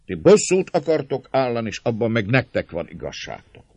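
magas, hangos szónoki hang; szólj derűsen az egész tömeghez; jókedvű népszónok. A narrator's reading. (tréfás népszónokként, emelt hangon)

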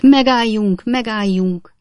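a doctor bursting out to stop the fight, shouting; exclaiming stop. Acted. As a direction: cry out to halt the duel. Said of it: "végül felkiáltott".

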